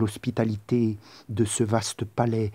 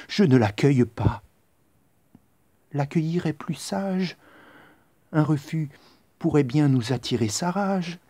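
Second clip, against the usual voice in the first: put-on indignant young woman; 6 semitones higher than usual. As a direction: refuse the Roman with disgust. Outraged female character replies.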